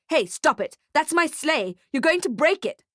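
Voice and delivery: high, urgent protest; rising, exasperated outburst; alarmed shout. A narrator's reading. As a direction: shout to protect your sleigh. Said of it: "shouts Nick".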